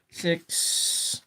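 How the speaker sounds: put-on stage whisper for kids. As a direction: whisper the number. Teaching kids to count.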